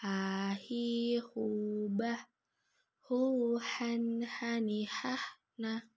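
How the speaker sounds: "Ha, hi, hu" mengalun dengan h tenggorokan; ayun dan tahan. Shown as a demonstration. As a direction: ayun "Hu", tahan n pada "han". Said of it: "Kita gabungkan dengan ayun-ayun mana tahan". (dengung ditahan pada "han")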